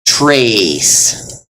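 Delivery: trace with a long ay vowel. Shown as a demonstration. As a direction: say trace with a held long E before s. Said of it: "sounds pretty similar to".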